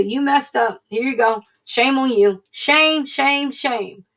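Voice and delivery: scolding, finger-wagging shame chant; mock the people who keep a list of your faults; mock shaming. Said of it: "most people that writes down a list and say".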